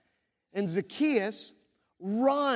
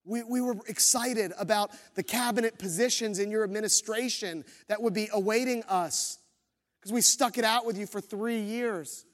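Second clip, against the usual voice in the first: higher, pleading disciples, a touch hammed-up; protesting disciples; 3 semitones higher than usual. Disciples objecting to Jesus, lightly mock pleading. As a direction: whine a little like a let-down follower. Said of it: "They go".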